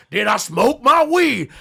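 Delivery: over-the-top stereotype ad read. Acted. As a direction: parody a pushy beer commercial voice. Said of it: "to do the black thing".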